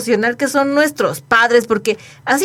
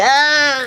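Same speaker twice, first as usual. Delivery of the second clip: sob; 2 semitones higher than usual. Retold or imitated. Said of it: "en el llanto".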